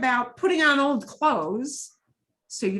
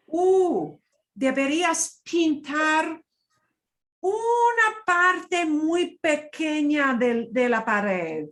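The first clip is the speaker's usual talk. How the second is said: pushy; 5 semitones higher, 4 dB louder, slower than usual. Shown as a demonstration. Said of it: "It doesn't sound as pushy that way".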